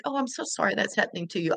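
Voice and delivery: quick, offhand "so sorry", not meant; breezy fake sympathy. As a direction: toss it off like hollow politeness. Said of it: "but that's not an apology".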